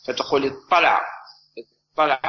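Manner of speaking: اطلع with one doubled emphatic ṭṭ; assimilated ṭā. Shown as a demonstration. Teacher giving students the merged form: اطلع with a doubled Ṭ. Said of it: "يمكنك أن الإدغام".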